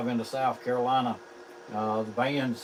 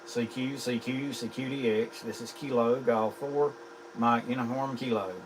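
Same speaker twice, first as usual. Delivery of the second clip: steady ham radio callout. Acted. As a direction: call it out like a radio operator.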